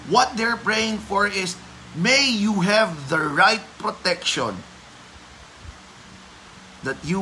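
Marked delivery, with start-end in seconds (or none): 1.9-4.6 the word right leaned on, slowly; slow down and press on right; right protection, with right weighted; stress on right. Shown as a demonstration. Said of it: "I'm putting the emphasis on the right".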